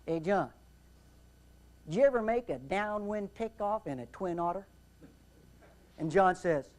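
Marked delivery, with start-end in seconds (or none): 0.1-4.7 southern brogue. Retold or imitated. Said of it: "has that sort of southern brogue".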